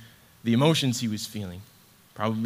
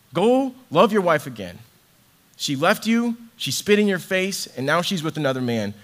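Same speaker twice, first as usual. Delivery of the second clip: raised, pleading voice of God's command; impassioned command; 6 semitones higher, 6 dB louder than usual. Acted. Preacher voicing God to Hosea, pressing and loud. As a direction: urge him on, voice climbing high and loud.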